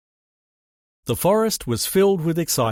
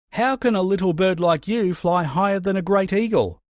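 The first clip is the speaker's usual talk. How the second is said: higher, startled shout of disbelief; 6 semitones higher than usual. A narrator's reading. Eagle shouts up at the little wren in surprise. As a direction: Eagle can't believe it, shouting up. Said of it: "he shouted".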